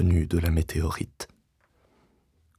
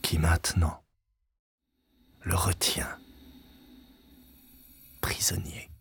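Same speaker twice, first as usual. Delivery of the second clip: whispered narration. A narrator's reading. Narrator whispers the trap closing.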